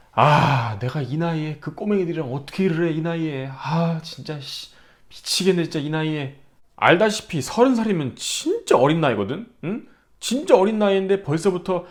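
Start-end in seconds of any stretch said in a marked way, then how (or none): 0.1-6.4 grumbling complaint about age; sulky muttered gripe; mock whining. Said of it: "이런 얘기 많이 하거나".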